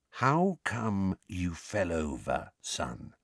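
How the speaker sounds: slow, hushed bedside voice; unnaturally quiet. A narrator's reading. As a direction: ask as if at a sickbed. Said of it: "in an unnaturally quiet voice".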